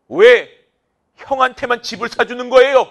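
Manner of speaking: loud, high jealous complaint to parents; jealous whining. Acted. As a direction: whine like a jealous younger sibling. Teacher acts jealous sibling. (부모에게 억울하게 따지는 큰 소리)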